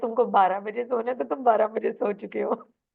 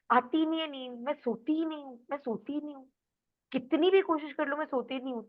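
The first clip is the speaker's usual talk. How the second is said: complaining sleepless; 4 semitones higher, 3 dB quieter than usual. Retold or imitated. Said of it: "The way you say is".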